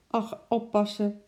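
a lady in distress calls out; unhappy lady. Acted. Upset lady warns the zookeeper, lightly voiced. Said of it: "Haar gezicht stond ongelukkig".

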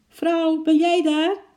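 high, loud call to someone upstairs. A narrator's reading. Sick man calls up to his wife, loud and high. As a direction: holler up through the house. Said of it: "riep meneer Hakke naar boven".

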